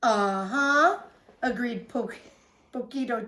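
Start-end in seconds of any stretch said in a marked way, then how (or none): 0.0-1.0 trembling. A narrator's reading.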